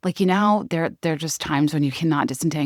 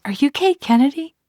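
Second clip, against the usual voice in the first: excited question; 10 semitones higher, 3 dB louder than usual. Retold or imitated. Fan recognizes her at gate.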